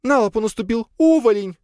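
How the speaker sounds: high-pitched angry scolding; furious hissing. A narrator's reading. Lea scolds the cat that stepped on her paw, furious. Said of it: "её тихое, яростное шипение".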